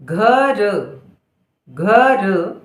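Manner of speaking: slow, stretched dictation; syllable by syllable. Shown as a demonstration. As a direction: hold घ, then र in घर. Dictating word sound by sound.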